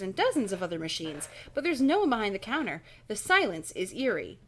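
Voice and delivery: animated read-aloud narration; story narration. Acted. Reading an adventure book to stream viewers, animated narration. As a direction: read the story out with lively projection.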